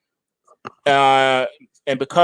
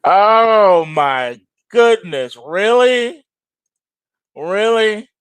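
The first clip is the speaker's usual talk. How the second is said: slow, loud, rising disbelief; incredulous; 6 semitones higher, 4 dB louder, much slower than usual. Real, not acted. Host reacting to condom-shortage news, stunned and incredulous. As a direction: draw it out like you can't believe the headline.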